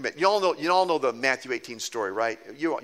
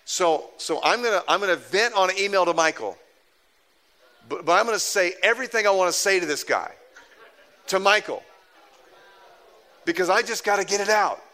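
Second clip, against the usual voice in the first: raised, worked-up venting; a colleague bursting to let off steam; frustrated venting; 4 semitones higher, 3 dB louder than usual. Retold or imitated. David telling the pastor he must vent, raised and worked up. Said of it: "he said".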